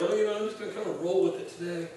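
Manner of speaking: mocking the aimless attitude of believers, offhand; lazy mock shrug. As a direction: toss it off like you don't care.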